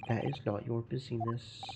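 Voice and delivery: a hint of a Russian accent, gruff and proud; broken-English Russian sailor. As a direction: play the touchy ship's guard, lightly accented. Guard shuts down question.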